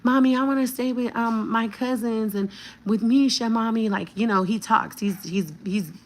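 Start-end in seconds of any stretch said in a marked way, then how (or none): 0.0-3.9 put-on crying child. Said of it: "He's kicking and screaming".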